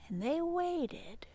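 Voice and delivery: hushed suspense whisper; breathless storytime whisper. Acted. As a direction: whisper the waiting. Suspense in repeated phrase.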